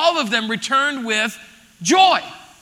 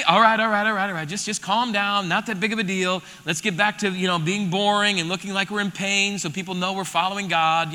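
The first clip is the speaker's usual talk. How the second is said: lower, softer, deadpan calming down; mock dull religious voice telling them to calm down; dismissive killjoy; 5 semitones lower, 4 dB quieter than usual. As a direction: hush them like a bored, stern elder. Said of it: "He didn't say".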